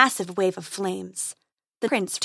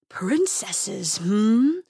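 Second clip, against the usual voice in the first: mocking dragon; much slower than usual. A narrator's reading. Dragon toying with prince.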